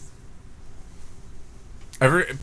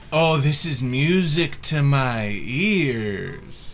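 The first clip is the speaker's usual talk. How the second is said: gushing Instagram lady; 3 semitones higher, slower than usual. Retold or imitated. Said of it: "but she's going".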